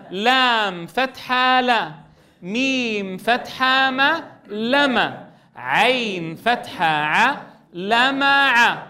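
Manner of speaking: slow, syllable-by-syllable spelling. Shown as a demonstration. Teacher spelling together with the students. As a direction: spell it out slowly together with the class. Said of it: "تعالوا لنهجئها سوية".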